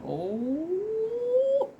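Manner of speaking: laughing through the words; giggly, bright and loud. Real, not acted. Laughing at try-on surprise.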